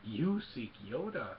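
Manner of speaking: slow imitated creature, pitch swooping in wonder; Yoda. Yoda realising whom Luke seeks, slow swooping impression. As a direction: draw out each word like a wise puppet. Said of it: "And then Yoda's ears go up".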